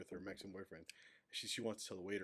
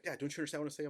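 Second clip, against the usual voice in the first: put-on higher, exasperated teen complaint; whiny teenage daughter; 7 semitones higher, 4 dB louder, much faster than usual. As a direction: play the frustrated daughter. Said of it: "she'd be like".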